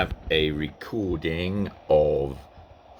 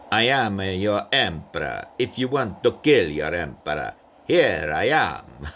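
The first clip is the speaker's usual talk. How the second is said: Napoleon in English; 3 semitones higher than usual. Shown as a demonstration. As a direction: dare them to kill him, grandly. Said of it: "in English it would be".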